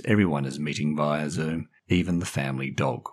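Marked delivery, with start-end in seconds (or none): none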